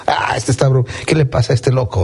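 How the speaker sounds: scornful aside, half whispered; mocking whisper. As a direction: mutter the mockery under your breath. People mocking Jesus. (burla susurrada)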